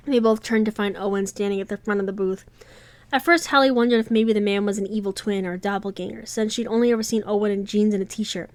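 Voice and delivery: reading a romance novel aloud, evenly paced; audiobook-style read; story narration. A narrator's reading. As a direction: tell the story to listeners, voicing the characters lightly.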